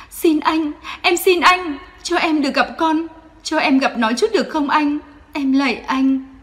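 high, loud frantic pleading; Phượng clutching Quân's shirt, begging to see her son; panicked begging. Acted. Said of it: "cầu xin trong hoảng loạn". (cầu xin hoảng loạn)

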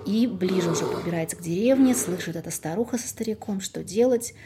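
lively folk tale narration; fairy tale storytelling. Acted. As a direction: tell it like an old village tale. Folk tale told aloud.

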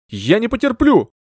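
high, loud furious cry; indignant shout. Acted. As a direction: fling it back as you storm out. Housekeeper storms out shouting.

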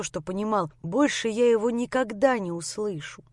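ordinary delivery

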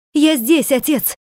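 выше и громче, от радости; крикни отцу, почти обезумев от радости; радостный крик. Acted. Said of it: "крикнул Ханс". (сын радостно кричит очнувшемуся отцу, громко)

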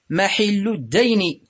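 محل الدين as mahillu d-dayn, i on the ha; kasra on ha. Shown as a demonstration. Teacher quoting a debt's due date, محل said mahillu. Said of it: "فهو بكسر الحاء".

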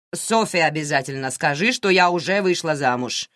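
plain reading voice

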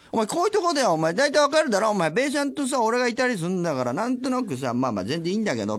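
high-pitched teasing scold of a junior; mock senior scolding. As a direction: needle the junior like a fussy senior. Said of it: "とか".

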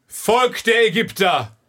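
slow, grand royal address; pharaoh proclamation. Acted. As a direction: announce yourself like a pharaoh. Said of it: "willst du kurz üben als Pharao".

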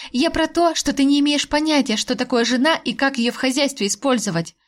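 biting sarcastic retort; caustic. Acted. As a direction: needle him with every word. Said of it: "едко отозвалась я".

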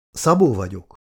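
mildly grudging introduction; reluctant. A narrator's reading. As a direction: give your name unwillingly, keeping pitch down. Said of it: "mutatkozott be kelletlenül Laci". (kelletlenül)

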